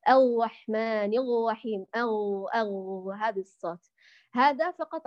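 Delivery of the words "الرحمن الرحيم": الرحمن الرحيم with a throaty gh-like r, slowly; French r. Shown as a demonstration. Teacher imitating a French-style r lisp. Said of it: "بالراء الفرنسية".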